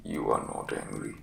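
very low, croaky sick man's voice; croaking invalid. Acted. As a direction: croak it out weakly from the sickbed. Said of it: "was croaking".

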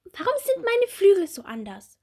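high, bright little bumblebee; small bumblebee voice. Acted. Little bumblebee Bommel asking Marie about her wings, high childlike voice. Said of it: "Die kleine Hummel fragt".

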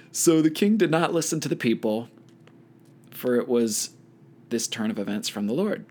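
measured Bible read-aloud with lifted phrase openings; scripture reading. A narrator's reading. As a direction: read the passage aloud to a study group. Reads Bible passage aloud.

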